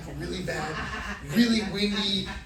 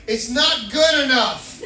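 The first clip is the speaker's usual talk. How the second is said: slow, louder scolding; acted cross nurse, unimpressed; angry nurse; 3 semitones higher, 5 dB louder, slower than usual. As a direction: reject it slowly and forcefully. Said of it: "She's angry at me".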